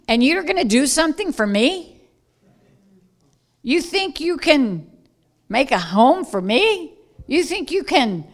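God's mock-incredulous questioning, lightly acted; incredulous challenge. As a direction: question them as if they're absurdly presumptuous. God challenges puny human builders.

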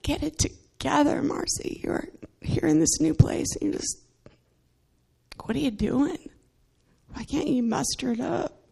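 high, breathy self-scolding, half whispered; berating herself. Retold or imitated. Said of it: "kind of berating myself".

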